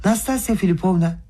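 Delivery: outcry. A narrator's reading. Brother crying out to Nastasya Filipovna, high outcry. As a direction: cry out to make everyone look at the girl. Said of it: "diye haykırdı".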